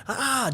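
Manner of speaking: short high mock scream; playful high yelp from a joke character; retold scream of a burned woman. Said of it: "She jumps up screaming".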